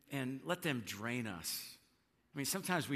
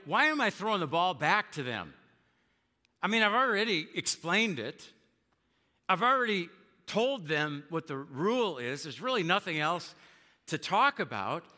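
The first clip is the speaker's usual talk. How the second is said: exasperated; 4 semitones higher, 5 dB louder than usual. Retold or imitated. Parent's exasperated inner thought.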